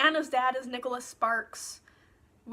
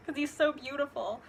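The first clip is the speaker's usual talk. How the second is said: run-on melodramatic mock lament; mock crying. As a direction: imitate a weepy teen, overdone. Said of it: "she runs out crying".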